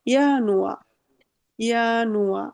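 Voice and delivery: ইয়ানুয়া begun with a Y sound; German pronunciation. Shown as a demonstration. Teacher models January in German for students, careful pronunciation. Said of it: "সঠিক উচ্চারণটা আমরা নেওয়ার try করব".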